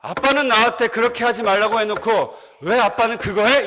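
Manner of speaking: lightly voiced child calling out his dad, rising question; child's reproach. Son pointing out his father's hypocrisy, mild childlike reproach. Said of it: "이렇게 얘기했어요".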